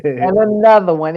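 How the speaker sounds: lightly voiced hype shout of a famous hip-hop DJ; a hint of a famous hip-hop DJ, hyping it up. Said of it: "In my hip-hop DJ voice".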